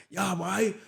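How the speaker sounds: puzzled questioning in a put-on Bermudian accent; imitated Bermudian accent. Retelling locals pushing the sandwich, in a Bermudian accent. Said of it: "The accent's killing me".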